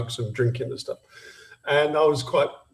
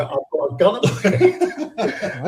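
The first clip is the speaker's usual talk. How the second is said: half-laughing, a little slower; laughing while telling; 4 semitones higher, slower than usual. Real, not acted. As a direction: laugh through the punchline. Laughs recounting the gun moment.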